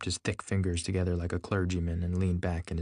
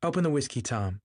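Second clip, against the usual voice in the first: raised-pitch, lightly commanding order; 6 semitones higher than usual. A narrator's reading. Daisy telling Tom to open the whiskey, ordering. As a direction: give a brisk order, pitched up at the start. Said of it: "she ordered".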